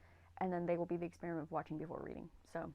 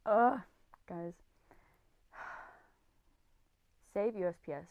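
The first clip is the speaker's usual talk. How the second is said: usual speaking voice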